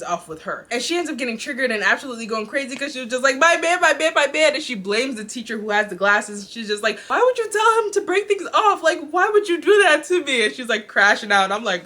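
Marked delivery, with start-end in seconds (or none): 3.4-4.5 higher, louder frantic repeat; frantic wail. Retold or imitated. Sister freaking out after the breakup, a loud high wail. 7.1-10.5 much higher, loud accusing wail; accusing cry. Retold or imitated. Sister blaming her brother for the breakup, a high loud wail. Sister confronting teacher, crashing out.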